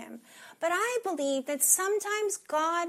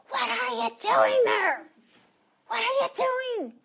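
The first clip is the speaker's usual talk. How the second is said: high, loud scolding yell; acted exasperated parent scream; 10 semitones higher, 8 dB louder than usual. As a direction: yell like a parent catching a kid. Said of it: "He didn't scream it".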